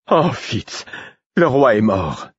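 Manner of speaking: voix aiguë qui crie de loin; cri de loin. A narrator's reading. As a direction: annoncer la nouvelle en criant. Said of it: "me cria-t-elle de loin". (Patience crie de loin)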